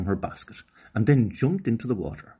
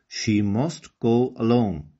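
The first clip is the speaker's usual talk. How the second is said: slow, firm, a little louder; commanding chief; 3 semitones higher, 5 dB louder, slower than usual. Acted. Chief ordering Okani's parents, slow stern command. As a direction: lay down the law slowly. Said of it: "the chief commanded".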